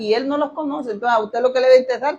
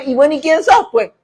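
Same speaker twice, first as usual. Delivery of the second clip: imagined Lord questioning; 2 semitones higher, 3 dB louder than usual. Retold or imitated. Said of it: "ya me imagino".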